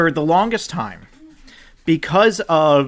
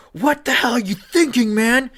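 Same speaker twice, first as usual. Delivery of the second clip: high, building to a loud shout; mock outraged commentator yelling at the player; imitating a commentator's yell; 10 semitones higher, 6 dB louder than usual. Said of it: "he yells".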